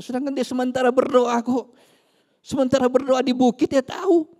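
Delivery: loud, high, emphatic sermon; preaching at full force; fiery preaching. Acted. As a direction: drive it home to the crowd.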